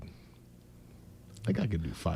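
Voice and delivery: breathy whispered aside, barely voiced. Real, not acted. Co-host whispering a sneaky bet to himself, hushed whisper. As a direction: whisper it to yourself like a secret wager.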